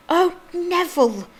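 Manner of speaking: lightly voiced sighing grandmother; a weary old gran's sigh on the name; mild old lady exasperation; old woman sighing. A narrator's reading. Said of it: "he heard the old woman sigh".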